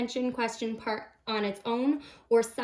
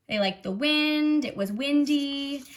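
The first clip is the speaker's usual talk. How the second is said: put-on child answer voice; 5 semitones higher, 3 dB louder than usual. Shown as a demonstration. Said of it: "They might say".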